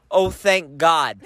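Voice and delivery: slow, drawn-out imitation of relief; imitating a relieved waitress; retold relief. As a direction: let out a slow sigh of thanks. Retells waitress's relieved reply.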